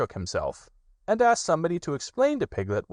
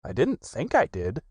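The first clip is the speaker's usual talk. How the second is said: anxious Pooh; 5 semitones higher than usual. Acted. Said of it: "said Pooh anxiously".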